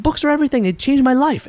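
high-pitched Indian accent impression. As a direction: Indian accent, earnest and glowing. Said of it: "Forgive my Indian accent".

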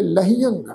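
ਲਹਿਅੰਗ with a nasal -ang ending; nasal pronunciation. Shown as a demonstration. Teacher showing how tippi is sounded, nasal ending on ਲਹਿਅੰਗ. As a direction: let ਲਹਿਅੰਗ end through the nose on -ang. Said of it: "ਨਾਸਕੀ ਉਚਾਰਨ ਕਰਾਂਗੇ".

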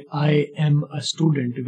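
I am a student, slow with each word apart; teacher shows how learners usually say it; separated words. Shown as a demonstration. Slow, separated learner's version. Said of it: "आप आमतौर पर कहते हैं".

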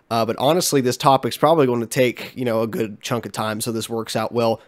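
blocked nose; talking through congestion; congested voice. Real, not acted. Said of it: "I'm so congested".

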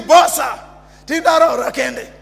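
loud imitation of a heckler; imitated loud, taunting greeting; mock calling out. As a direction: call it out like the village drunk, loudly. Drunk man calling out at church.

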